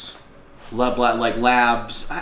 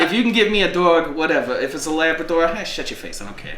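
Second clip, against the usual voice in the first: high, laughing mock Boston accent; jokey Boston loudmouth accent; 7 semitones higher than usual. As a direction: ham up a Bostonian, pitched up. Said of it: "saying it like I'm from Boston".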